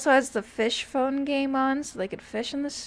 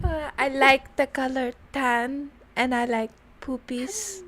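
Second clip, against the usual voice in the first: Nacho Libre quote; slower than usual. Acted. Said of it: "Such a good movie".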